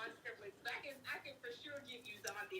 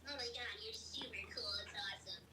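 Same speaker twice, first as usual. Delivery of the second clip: lightly voiced little girl; a hint of a little girl's chatter. Shown as a demonstration. Demonstrating voice roles, a lightly voiced little girl. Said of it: "little girl".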